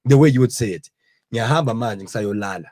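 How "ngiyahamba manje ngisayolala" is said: a hint of a Zulu accent, spoken softly; Zulu accent demo. Shown as a demonstration. Demonstrating the Zulu accent to the friends, softly voiced. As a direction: say it the Zulu way, lightly. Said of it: "in the Zulu accent".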